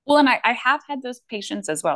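talking through hiccups; hiccuping. Real, not acted. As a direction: speak with hiccups breaking in. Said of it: "Excuse me, I'm hiccuping".

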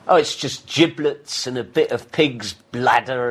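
slow, matter-of-fact Scottish reply; Scottish server. Acted. Scot tells English visitor what's in the sausage, slowly. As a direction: list it slowly as the Scottish local. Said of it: "And they go".

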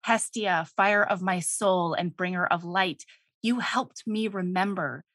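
low, gentle declaration of love; understated heartfelt reading; tender gratitude. Acted. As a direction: read it softly like a lover confiding. Reading the god's grateful love speech.

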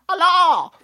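slow, squealed mock Chinese phone voice; mock Chinese accent. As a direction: drag out the name in a hammed-up Chinese accent. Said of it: "And he goes".

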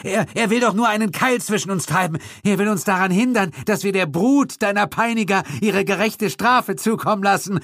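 high, urgent pleading; frantic, stammering accomplice; Gildritch pleading. A narrator's reading. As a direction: beg the monster not to listen.

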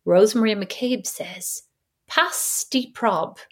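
slow, robotic imitation of Siri reading a text. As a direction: read it out like a phone assistant, slowly. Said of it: "She goes".

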